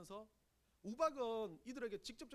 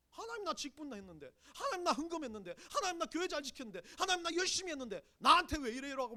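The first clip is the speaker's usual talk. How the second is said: believer whining to God, growing louder and higher; building complaint; 6 semitones higher, 7 dB louder than usual. Retold or imitated. Preacher voicing a believer's complaint to God, building whine. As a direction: list the grievances, each louder.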